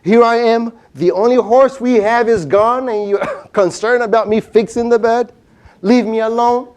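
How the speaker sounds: mock angry yell. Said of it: "scream at his wife".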